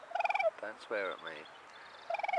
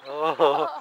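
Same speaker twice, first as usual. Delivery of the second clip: kind gentle laugh; 11 dB louder than usual. Real, not acted. Delighted at animal.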